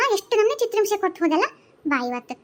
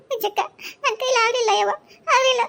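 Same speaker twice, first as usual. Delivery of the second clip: crying; 4 semitones higher than usual. Acted. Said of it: "ಅಳ್ಬೇಡ".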